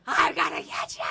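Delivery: breathy mock shout, chasing up the stairs; mock yell at the daughter; playful threat. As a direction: hiss it out like a teasing chase. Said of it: "I'd be like".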